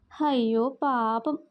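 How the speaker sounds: mock pity. Pooja mocks Sneha's sad face.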